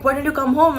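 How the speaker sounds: high, sugary aunt's invitation; sweet aunt. Retold or imitated. Aunt inviting the niece home, high and sugary. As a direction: put on the aunt's fake-sweet voice.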